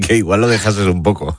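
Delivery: laughing through a teasing suggestion; amused, laughing while joking. Real, not acted. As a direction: chuckle as you give the playful advice. Teasing advice to the guest.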